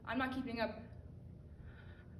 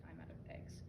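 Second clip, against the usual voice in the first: whispered aside, much lower; a distracted thought slips out in a whisper; stray thought; 12 dB quieter than usual. Mind wandering mid-task, breathy whisper.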